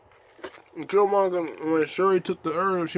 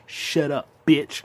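mock yell; 6 dB louder, slower than usual. Mock-insulting critics.

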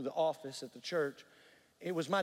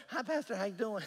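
higher North Georgia greeting impression; Clois's North Georgia accent; 6 semitones higher than usual. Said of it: "she was always like".

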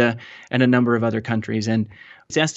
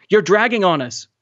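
high-pitched alarmed complaint; yelling; 7 semitones higher than usual. A narrator's reading. Woman in the dinghy to boy dragging on it, yelling. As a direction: call it down urgently from above. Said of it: "a woman in the dinghy yelled down at him".

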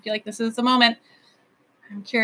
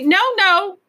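loud, high interruption; emphatic refusal; 10 semitones higher, 8 dB louder than usual. A narrator's reading. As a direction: cut off the consolation sharply. King cuts off consolation.

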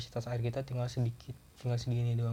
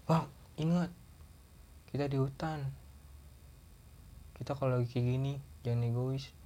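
friend's reprimand; 4 dB quieter than usual. Retold or imitated. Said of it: "kata dia".

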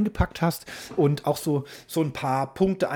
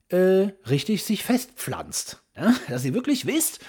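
strict teacher. Pretend. Orders listeners to take notes.

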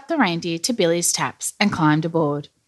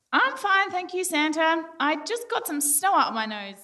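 very high, soft character voice; little reindeer voice; 11 semitones higher, 6 dB quieter than usual. A narrator's reading. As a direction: squeak it out as a small reindeer. Rudolph answers in character.

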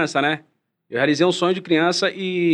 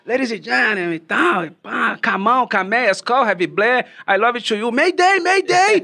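catchphrase shout; 4 semitones higher than usual. Retold or imitated. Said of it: "eu sempre peguei bordão".

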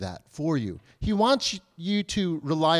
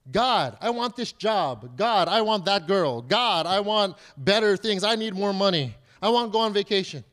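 mock demanding prayer; 3 semitones higher than usual. Christians treating God like Santa Claus, mock demands. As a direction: press each want on God, a touch childish. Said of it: "and we treat him like Santa Claus".

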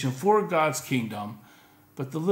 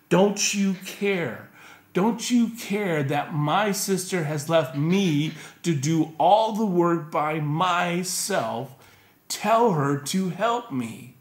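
accusing plea; 3 semitones higher, slower than usual. Retold or imitated. Martha demanding Jesus make her sister help, slow and aggrieved. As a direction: drag out each word in grievance. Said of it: "Look again what she says".

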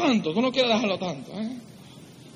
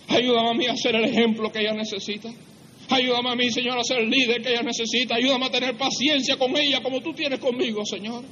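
higher, earnest petition; pleading prayer; 5 semitones higher than usual. Acted. Preacher modelling a husband's prayer for patience, pleading. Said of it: "Tú le dices".

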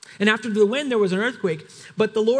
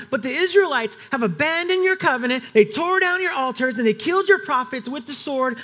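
higher and louder, impatient complaint; exasperated repeat; 5 semitones higher, 3 dB louder than usual. Acted. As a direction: repeat the grievance with sarcastic weariness. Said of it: "because obviously you were listening to me the last time".

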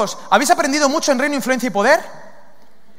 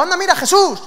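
high, excited call; high-pitched eager exclamation; eager demon running up; 8 semitones higher than usual. Acted. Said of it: "la actitud de venir corriendo".

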